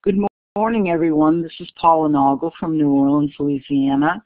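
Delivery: hoarse scratchy voice from cheering; a raspy, worn-out voice. Real, not acted. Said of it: "sorry for my scratchy voice".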